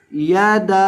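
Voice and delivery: यादा with the da held for three beats; three-alif madd. Shown as a demonstration. Teacher reads for students with three-alif length. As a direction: stretch the da of यादा for three counts. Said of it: "तीन अलिफ के बराबर लंबा करके आपके सामने पढ़ देता हूँ".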